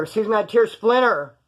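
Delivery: mildly irritated call, drawn out; a touch of annoyance at the late answer; aggravated. Retold or imitated. Guard calls the sleeping inmate, mildly aggravated. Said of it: "Like, aggravated voice".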